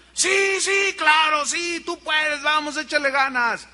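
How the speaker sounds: high, loud eager cheering; cheering crowd. Acted. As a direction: cheer him on like a fan.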